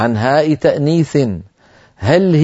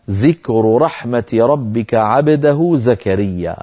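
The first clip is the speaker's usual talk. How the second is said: slow, melodic recitation; Quran recitation; 3 semitones lower, slower than usual. Acted. Teacher quotes the verse in recitation tone.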